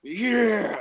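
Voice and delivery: high, drawn-out mock cheer; mock whoop. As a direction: imitate a character's ill-timed holler. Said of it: "open his mouth and just go".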